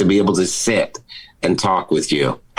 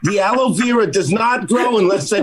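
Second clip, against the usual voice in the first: a much higher, squeaky defensive voice; high mock pleading; 10 semitones higher than usual. Man defending himself to neighbors in a high squeak. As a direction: squeal it like a guilty weirdo.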